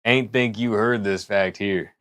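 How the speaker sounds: put-on slow, lightly drawn cowboy accent. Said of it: "Do a better accent".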